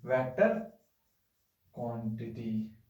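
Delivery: slow repeat. Shown as a demonstration. Teacher repeating the term for students' notes, slow. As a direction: drag out vector quantity so it sticks. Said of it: "क्या बोलते हैं?".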